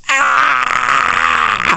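high, drawn-out mock scream. Telemarketers at the other end of the line, imitated scream. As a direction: scream like a telemarketer driven crazy. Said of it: "I hear them scream at the other end".

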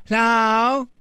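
put-on high little-kid hello; a small child picking up the phone; toddler voice. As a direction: answer like a tiny child.

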